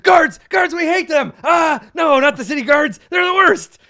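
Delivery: very high, shouted dog voice; outraged guard dogs. Acted. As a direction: bark the words in a frenzy. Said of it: "the dogs are like".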